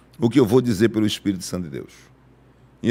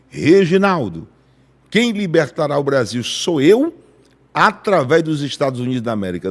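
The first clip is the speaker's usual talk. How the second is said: voice of thunder; 2 semitones higher, 3 dB louder than usual. Retold or imitated. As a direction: proclaim it like thunder rolling. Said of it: "Deus bradou com uma voz de trovão".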